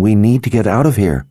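snapping. A narrator's reading. Nikki pressing Victor to flee, snapping. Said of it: "Nikki snapped".

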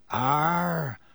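darkly voiced driver's agreement; a brief, ominous grunt of assent. A narrator's reading. Driver agrees with the conductor, darkly. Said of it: "said Ern darkly".

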